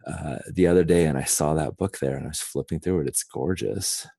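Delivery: slow, drawn-out speech. Shown as a demonstration. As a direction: talk very slowly. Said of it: "just very slowly".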